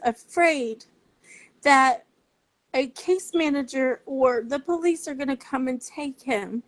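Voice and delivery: fighting back tears while pleading; raw, tearful plea about her son; emotional. Real, not acted. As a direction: voice rising and breaking, close to tears. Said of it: "I'm about to get really emotional".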